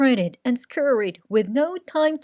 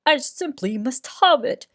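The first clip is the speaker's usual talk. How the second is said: wistful cry; 3 semitones higher, 4 dB louder than usual. Acted. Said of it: "he wistfully cried".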